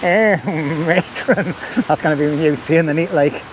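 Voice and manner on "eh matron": borrowed catchphrase. Acted. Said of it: "it's Christopher's, I'm pinching".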